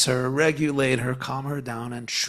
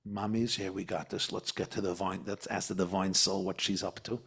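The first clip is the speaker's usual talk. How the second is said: soothing mother; 4 semitones lower, 4 dB quieter than usual. Retold or imitated. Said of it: "tell your animal soul".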